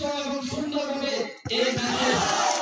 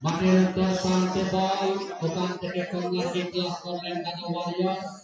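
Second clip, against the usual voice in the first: rapid live play-by-play; frantic football commentary; 3 semitones lower than usual. Real, not acted. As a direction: call the match as it unfolds.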